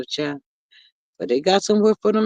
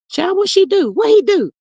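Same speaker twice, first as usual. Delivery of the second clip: higher, hungry for the gossip; eager surprise; 11 semitones higher than usual. Real, not acted. Asking the chat what happened, eagerly. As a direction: lean in, dying to know.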